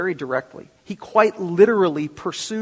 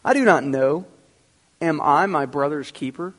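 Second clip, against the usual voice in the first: defiant reply; 4 dB louder than usual. Retold or imitated. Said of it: "to speak to God defiantly".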